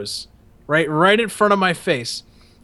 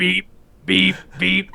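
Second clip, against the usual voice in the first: imitated truck beep; 2 semitones higher, slower than usual. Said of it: "They just make a beep sound".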